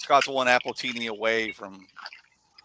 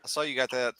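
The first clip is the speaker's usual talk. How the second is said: whisper; 6 dB quieter than usual. Real, not acted. Repeats line as whisper.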